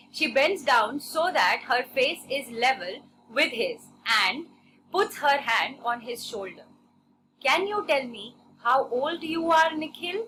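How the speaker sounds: slow, measured classroom reading; story read-aloud. A narrator's reading. Teacher reading a story to a class, measured read-aloud. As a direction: read it out slowly, phrase by phrase.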